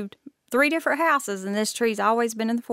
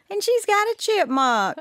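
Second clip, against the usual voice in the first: higher, startled voice; startled notice; 10 semitones higher than usual. Retold or imitated. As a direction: realize it in alarm. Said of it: "and I said".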